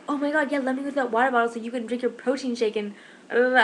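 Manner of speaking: mock gushing that runs into blah-blah; mock eagerness. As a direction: play up fake enthusiasm, then dismiss it. Mocking the reply she didn't give.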